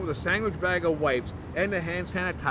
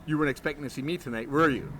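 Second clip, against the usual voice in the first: smooth-talk her; flirty; 5 semitones lower, faster than usual. Acted. Bruno flirting with Chloe at the door, low and suave.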